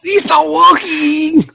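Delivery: hammed-up broken-English Asian accent; a loud mock Asian accent. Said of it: "horrible Oriental accent".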